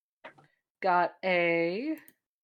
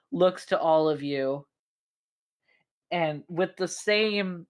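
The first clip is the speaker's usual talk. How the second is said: measured, dramatic scene-setting with weighted pauses; game master narration; slower than usual. Acted. Game master describing a fallen foe to the players, dramatic narration. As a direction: draw out the key words, pausing between phrases.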